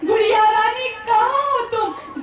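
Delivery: put-on high, happy call to his little girl; father home with a gift, calling his daughter happily; joyful calling. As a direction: call out for her, full of joy, drawing out the question. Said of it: "सिर्फ खुशी के मारे से बोलता है".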